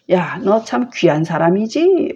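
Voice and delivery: mildly mocking, teasing lilt; a light ironic jab; gently sarcastic praise. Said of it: "뭐 이렇게 저처럼".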